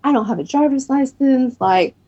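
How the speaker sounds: reenacted overwhelmed outpouring; breaking down. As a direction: recount it as a distressed, high-pitched plea. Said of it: "I kinda broke down".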